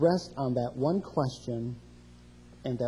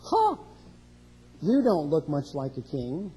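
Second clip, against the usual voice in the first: mocking. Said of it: "is it coming out like".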